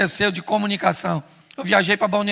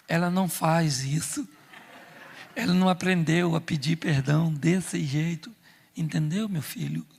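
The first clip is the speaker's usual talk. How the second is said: slow, gentle, lower divine voice; lightly voiced God; 3 semitones lower than usual. God explaining to a son, slow and gentle. God's voice in his heart.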